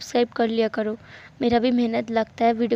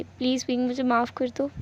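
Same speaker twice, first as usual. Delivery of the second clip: hushed, gentle pleading; soft plea; 5 dB quieter than usual. Acted. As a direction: plead softly for forgiveness. Pleads with brother for forgiveness. (धीमे स्वर में विनती)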